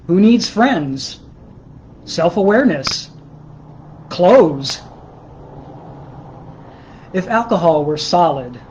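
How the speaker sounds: measured, deadpan literary reading; prose poem reading. Acted. Poet reading a mock-serious book on drugs to livestream viewers, measured recital. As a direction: read it out in measured phrases, pausing after each. Reads own prose poems.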